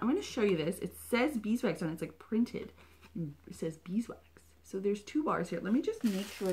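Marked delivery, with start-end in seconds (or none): 3.1-4.2 slow hushed whisper; quiet confirmation. Real, not acted. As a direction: read it out softly, slowly. Confirming label.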